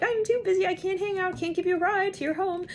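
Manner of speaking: high, dismissive mock voice; brushing someone off. Someone too busy to give a ride, high mock brush-off. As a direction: toss it off in a high voice. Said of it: "they kinda acted like".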